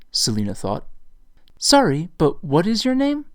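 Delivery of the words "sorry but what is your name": higher, louder, insistent; raised insistent question. A narrator's reading. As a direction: ask louder to be heard. Selina asking louder, ignored.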